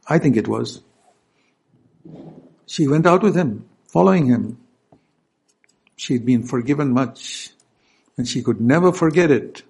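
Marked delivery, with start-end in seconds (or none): none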